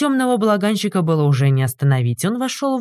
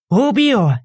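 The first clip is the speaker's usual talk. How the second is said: higher, louder threat; furious threat; 6 semitones higher, 3 dB louder than usual. A narrator's reading. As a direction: threaten to kill. Innkeeper threatens. (яростная угроза)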